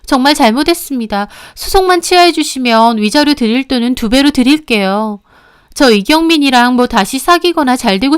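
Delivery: a lightly voiced mistress begging to settle; plead, then scoff at the ex. Mistress begs the wife to drop the lawsuit, pleading.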